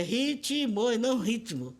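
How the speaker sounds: "ritmo" said in three beats with an added i, "hí-ti-mo", slowly; first "ritmo" as "hí-ti-mo" with the vowel, then "ritmo" clipped into two syllables; three-syllable pronunciation. Shown as a demonstration. Linguist contrasting the Brazilian and normative "ritmo", slowly. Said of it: "pra gente ele tem três sílabas".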